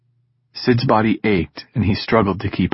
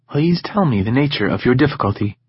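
gentle female robot voice; 3 semitones higher than usual. Acted. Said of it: "in an oddly gentle female voice".

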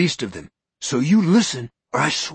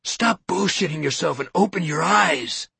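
mocking, mock-admitting, rising; mock his joke theory; sarcastic, loud confession parody; biting sarcasm; 5 semitones higher, 3 dB louder than usual. Sarcastic mockery of Norton.

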